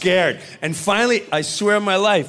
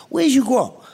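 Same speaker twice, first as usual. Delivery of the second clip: Joe Pesci impression; 5 semitones higher than usual. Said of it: "That's an incredible impression".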